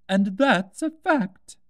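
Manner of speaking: slow, high, lofty duchess voice; haughty Duchess. A narrator's reading. The Duchess loftily tells Alice about the cat, slow and high. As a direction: drawl it out like a superior duchess.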